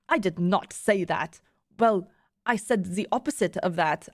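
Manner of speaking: put-on firm denial in a faltering German accent; attempted German accent. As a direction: deny it in a badly faked German accent. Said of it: "I can't do a German accent".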